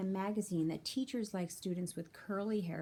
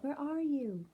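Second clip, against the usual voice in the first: higher call, a bit louder; yelling; 8 semitones higher, 3 dB louder than usual. A narrator's reading. Beanie calling to find Mom, higher and louder. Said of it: "I yelled".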